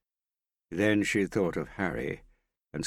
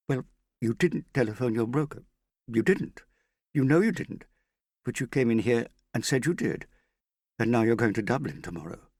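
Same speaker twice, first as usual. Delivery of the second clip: heated accusation; 8 semitones higher, 4 dB louder than usual. A narrator's reading. Rising accusation, loud and high.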